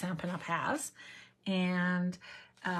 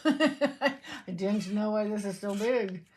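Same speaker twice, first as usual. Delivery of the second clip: slow, laughing through the words; slower than usual. Real, not acted. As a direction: giggle while saying it. Repeats line, laughing through it.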